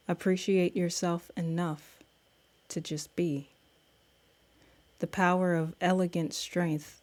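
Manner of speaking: measured spoken-word reading with pauses; poem recital. Acted. Host shares her poem celebrating women, reciting. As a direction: recite it line by line, letting each phrase land.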